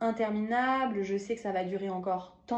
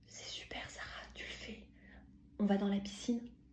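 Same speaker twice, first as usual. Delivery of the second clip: very soft, barely voiced, whispered murmur; 9 dB quieter than usual. The speaker repeats what a woman whispered while hugging her: retelling a whisper. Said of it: "elle me dit en chuchotant".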